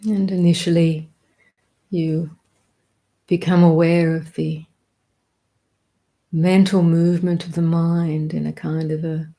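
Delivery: calm, measured meditation guidance with long pauses; unhurried meditation teacher, leaving space between phrases; guided meditation. Real, not acted. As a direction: guide them gently into the present, phrase by phrase.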